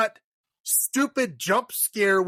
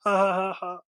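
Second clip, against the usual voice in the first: higher fake laughing, a bit shouted; mock giggling; 4 semitones higher than usual. Parents laugh while a woman dies nearby, mock giggle. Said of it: "they're just like".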